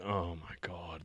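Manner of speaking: whispered, sighing "oh my God"; hushed disbelief. Retold or imitated. Looking back on the old days, hushed and whispered. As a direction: breathe it out very softly, under the voice.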